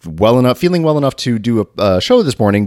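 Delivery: congested, blocked-nose voice; stuffy nose. Real, not acted. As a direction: speak through a stuffy nose. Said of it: "if I sound a little stuffy, that's 'cause I am".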